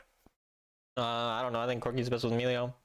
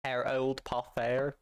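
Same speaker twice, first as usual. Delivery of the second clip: slow, stretched "Harold Potter" with a rising end; drawn-out Harold Potter; much slower than usual. Shown as a demonstration. Streamer slowly sounding out the name for chat. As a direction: lean on "Potter" and let it rise, slowly. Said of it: "Say Harry in a British accent".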